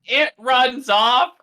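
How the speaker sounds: loud, high, drawn-out disbelief; mock-outraged repeat; incredulous echo. Real, not acted. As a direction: pounce on the wrong word, stretching it out. Incredulous echo of game master's wording.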